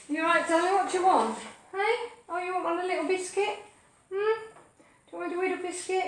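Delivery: soft, high, questioning pet voice; coaxing a pet. Real, not acted. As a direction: coo gently as if offering a treat. Coaxing the dog with a biscuit.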